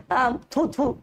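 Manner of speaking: a playful "thoo thoo" spit of disgust; teacher hams up disgust; mock disgusted spitting. Shown as a demonstration. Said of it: "आप ऐसे बोलते हो ना".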